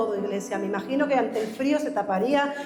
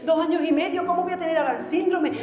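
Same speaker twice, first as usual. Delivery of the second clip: higher, pleading cry to the Lord; retold desperate prayer, pitched higher; desperate plea; 5 semitones higher than usual. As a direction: beg God in anguish, voice lifted. Addict crying out to God.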